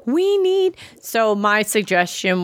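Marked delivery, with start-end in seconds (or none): 0.1-0.8 quoting Caitlin. Retold or imitated. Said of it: "she's like".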